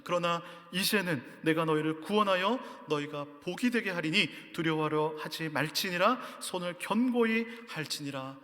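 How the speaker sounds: solemn, measured Bible reading; declaiming a passage from the pulpit; scripture reading. Acted. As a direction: read it out as holy scripture. Reads scripture aloud.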